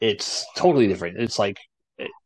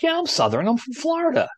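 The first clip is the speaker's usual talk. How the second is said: playful mock boast, pitched much higher; jokingly; 14 semitones higher than usual. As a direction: say it as a tongue-in-cheek claim. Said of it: "I was jokingly".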